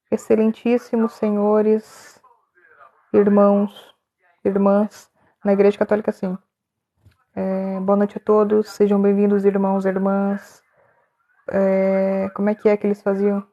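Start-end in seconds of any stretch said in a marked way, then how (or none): 0.1-10.6 slow, ceremonious greeting to the congregation; formal church greeting. Shown as a demonstration. Mock-formal greeting to brothers and sisters, slow and ceremonious. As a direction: address them like a solemn master of ceremonies. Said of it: "eu falo assim".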